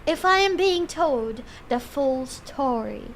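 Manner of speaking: put-on amateur British accent. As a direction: attempt at British accent, slowing at the ends. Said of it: "my attempt at doing a British accent".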